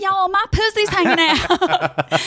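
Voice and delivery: high, slow breathy pop-star voice; impression of a pop singer. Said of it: "Can you do it again, please?".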